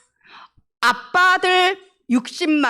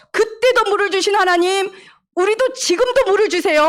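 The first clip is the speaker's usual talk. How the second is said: put-on higher, pleading child-like prayer; trusting prayer; 6 semitones higher than usual. Shown as a demonstration. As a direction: ask God for water in faith. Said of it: "하고 언약 붙잡고 기도했더라면". (믿음으로 간청하는 기도)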